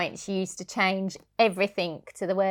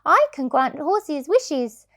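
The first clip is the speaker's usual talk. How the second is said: higher, louder and slow, magical promise; grand unicorn; 6 semitones higher, 5 dB louder than usual. Acted. Mother voicing unicorn to her daughter, slow and grand. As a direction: announce it like a kindly magic beast. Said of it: "said the snow-white unicorn".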